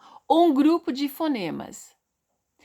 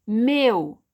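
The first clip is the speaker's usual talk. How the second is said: "meu" in one firm, louder beat; all together; 5 dB louder than usual. Shown as a demonstration. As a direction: say "meu" as a single unbroken sound. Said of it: "também tudo junto".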